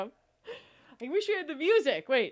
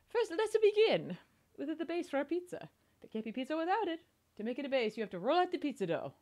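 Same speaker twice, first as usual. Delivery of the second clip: mock Italian accent; 2 semitones higher, faster than usual. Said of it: "Tempo's only speak is in Italian".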